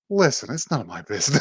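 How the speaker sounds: brushing it off, breaking into a laugh; retold line, chuckling through it; amused retelling. Host retells brother dodging the question, amused.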